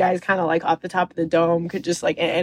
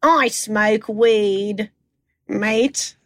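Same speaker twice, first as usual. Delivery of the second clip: Snape Dog voice; much slower than usual. Acted. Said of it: "what do we think about Snape Dog".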